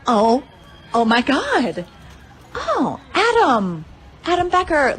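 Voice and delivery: rising, drawn-out gloat at Adam; teasing Adam by name, pitch climbing high; gloating quote. Retold or imitated. Gloating to rival Adam about her score, in a high drawn-out taunt. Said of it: "I'm like".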